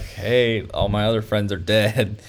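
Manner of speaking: lightly voiced shy monkey; a hint of a timid monkey. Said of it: "It's, like, shy".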